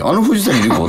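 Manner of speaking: replaying a startled double take; retold double take. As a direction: stumble over the name in mock shock. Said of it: "と思って".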